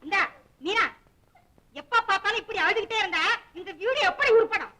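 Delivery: put-on loud scolding jab at a crying girl. Wife scolds crying Meena, loud and sharp.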